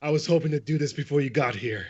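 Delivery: high, laughing villain aside; villainous. Acted. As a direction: curse like a foiled villain. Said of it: "and he says".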